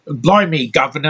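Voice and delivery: lightly mocking Cockney accent, sneering; a hint of a Cockney caricature. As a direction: send up a Cockney accent you can't stand. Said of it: "they talk in that stupid".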